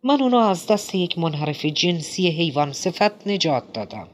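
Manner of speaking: a hammed-up indignant shout; shouting protest. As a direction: yell back in outraged denial. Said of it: "فریاد زد".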